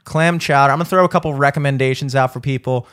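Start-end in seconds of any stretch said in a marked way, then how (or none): 0.0-0.7 Boston accent, dropped R, louder. Shown as a demonstration. Echoing the Boston accent demo.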